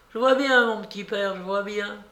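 quiet rage. A narrator's reading. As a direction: repeat it with anger held in, softening after the first words. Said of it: "avec une sorte de rage tranquille". (rage tranquille et contenue)

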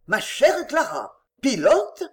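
mildly taken aback, rising on the last word; incredulous. Acted. Father hearing his daughter's career plan, incredulous.

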